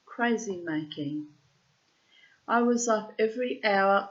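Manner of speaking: measured, deliberate literary reading; journal read aloud. Acted. Writer reading their diary to listeners, measured recital. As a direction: read it out in weighted, separated phrases.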